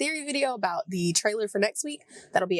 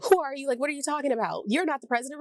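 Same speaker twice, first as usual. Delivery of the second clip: mildly snappy, higher-pitched imitation; retold snapping; 7 semitones higher, faster than usual. Retelling a confused woman confronting the president, mock snappish. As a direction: act out someone suddenly snapping, pitch raised. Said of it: "she, like, snapped".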